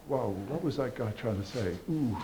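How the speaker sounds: hushed, lightly acted amazement; quietly puzzled concertgoer leaving; awed audience member. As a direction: murmur it softly, mildly stunned. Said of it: "when they walk out, they say".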